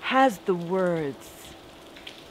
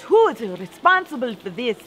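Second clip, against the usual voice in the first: hollered; 3 semitones higher, 6 dB louder than usual. Retold or imitated. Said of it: "she hollered".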